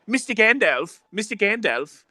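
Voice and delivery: pleading dwarf. Acted. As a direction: imitate a dwarf appealing to the wizard. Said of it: "the dwarves and Bilbo and Gandalf".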